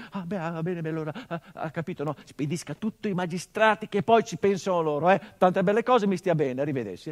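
a frightened officer babbling to get away; flustered panicked marshal. Acted. Marshal panicking in the dead man's study, loud flustered babble.

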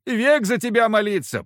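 high, loud begging whine; insistent whine. Acted. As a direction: keep whining for mercy. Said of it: "настойчиво ныть".

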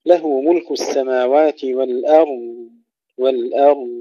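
والأرض with thin hamza, full ra, long-pressed dad; light hamza, heavy ra. Shown as a demonstration. Teacher models recitation, والأرض with heavy ra and dad. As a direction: stretch the final dad of والأرض without a bounce. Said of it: "ترقيق الهمزة ثم تفخيم الراء".

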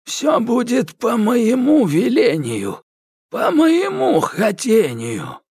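high, slow commanding sorcerer; Koshchei's decree. A narrator's reading. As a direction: proclaim your will. Koshchei declares his will. (Кощей повелевает)

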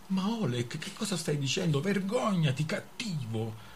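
Pavka teasing. Acted. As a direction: scold him like a pouting girl. Pavka scolds Oleg playfully. (rimprovero civettuolo, più acuto)

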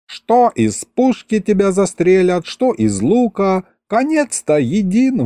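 high-pitched rambling grandpa voice; old grandpa lecturing. Acted. (дед причитает высоким голосом)

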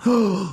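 high, loud gasped "oh"; exclaimed "oh". A narrator's reading. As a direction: let out a startled oh. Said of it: "dit Ron dans le terrible silence".

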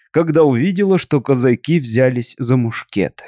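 plain reading voice

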